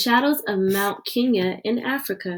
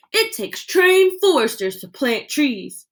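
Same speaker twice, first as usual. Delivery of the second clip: mocking officials; 4 semitones higher than usual. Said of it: "The government men laugh".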